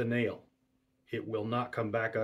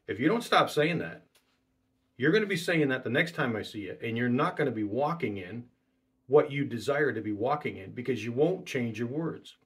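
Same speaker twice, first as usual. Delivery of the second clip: retold rebuke. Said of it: "rebuke people right to their face".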